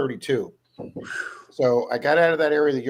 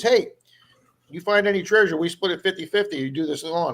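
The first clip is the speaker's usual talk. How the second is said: mild mock yell, pitched up; retold yell; 4 semitones higher than usual. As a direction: call out lightly as the guy across the yard. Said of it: "the guy yells to me".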